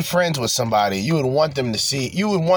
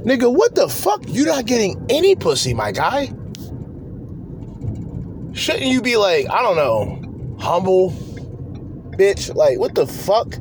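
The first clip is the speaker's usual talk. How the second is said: incredulous outrage; 5 semitones higher than usual. Real, not acted. Outraged at incels.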